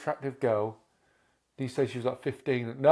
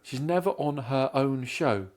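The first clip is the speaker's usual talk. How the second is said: "She's never on her own show" drawn out slowly; slow, deliberate repeat; slower than usual. Real, not acted. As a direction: spell it out word by word, unhurried. Slow repeat of misheard line.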